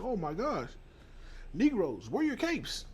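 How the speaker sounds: high squealing mock plea, rising to a shriek on capes; mocking panic. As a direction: ham up a scared plea for rescue. Imitating scared white folk.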